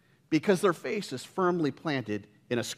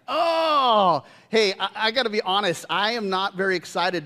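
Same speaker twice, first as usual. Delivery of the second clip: playful confession; 7 semitones higher, 5 dB louder than usual. Real, not acted. Confession to congregation.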